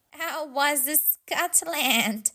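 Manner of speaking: slow, teasing question; joking. Acted. Missus Cox teasing Franklin back from his run, slow and joking. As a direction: tease him gently. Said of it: "she joked".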